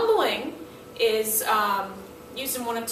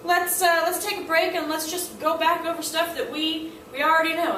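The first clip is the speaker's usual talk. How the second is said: casual let's-take-a-break; 5 semitones higher than usual. Retold or imitated. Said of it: "fancy way of saying".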